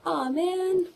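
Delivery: mock disappointment. Churchgoers seeing the baby was fake, mildly disappointed. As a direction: lightly imitate a disappointed onlooker.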